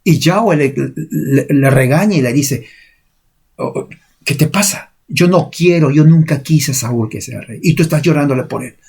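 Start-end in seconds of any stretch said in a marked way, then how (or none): 3.6-8.8 high, sharp mock rebuke from God; lightly voiced God scolding Samuel; retold scolding. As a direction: scold him like an impatient master.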